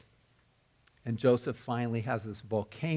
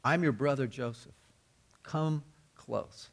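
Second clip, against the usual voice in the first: tender invitation. Retold or imitated. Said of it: "a term used to say".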